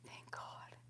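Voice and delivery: breathy soft relief; relieved whisper. Real, not acted. Whispering relief that the glass was empty.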